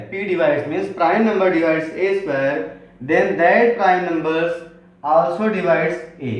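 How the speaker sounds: slow, spaced dictation of the theorem. Shown as a demonstration. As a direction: read it out slowly for copying. Dictating theorem statement to class. (धीमे-धीमे लिखवाते हुए)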